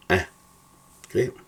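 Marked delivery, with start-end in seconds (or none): 0.1-0.3 "A" short and open; demonstrated vowel sound. Shown as a demonstration. Teacher models the last pronunciation, short open "A". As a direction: cut "A" short. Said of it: "otros se pronuncian como A".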